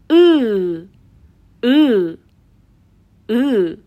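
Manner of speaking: lips held as for ee, push "او" out from the throat; Turkish dotless I. Shown as a demonstration. Teacher repeating for learners, "او" as a drawn-out throaty ı. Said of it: "از انتهای حنجره صدای ا".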